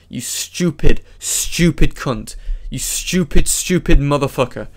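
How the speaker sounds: real angry tirade; emphatic, contemptuous outburst. Real, not acted. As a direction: lean hard on each insult. Angry insults aimed at Chris.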